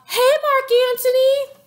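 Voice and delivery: high, sing-song flirty greeting; high flirty hey boo; Cleopatra flirting. Retold or imitated. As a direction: coo it up high.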